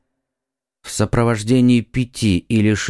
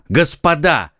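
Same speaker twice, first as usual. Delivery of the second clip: interrupting; 5 semitones higher than usual. Acted. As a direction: break in firmly. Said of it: "прервал их Д'Артаньян". (резкий окрик, перебивая)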